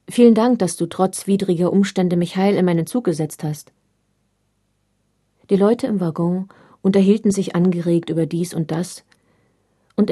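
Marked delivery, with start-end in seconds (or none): 0.1-3.7 calling after him. Retold or imitated. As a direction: call it out after the departing father. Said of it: "Ich rief ihm noch nach". (laut hinterhergerufen)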